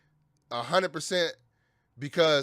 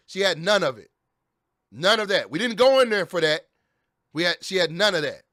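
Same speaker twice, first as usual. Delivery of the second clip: angry insistence; 5 dB louder than usual. Real, not acted. Ranting about dog's death.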